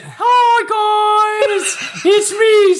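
booming pitch-shifted demon shout; deep pitch shifted. Retold or imitated. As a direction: shout it as a distorted Satan. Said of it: "that's his most disturbing impression".

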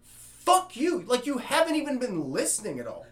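snapping at the loud heckler who never listened; high, loud drunk rant; drunk angry outburst. Retold or imitated.

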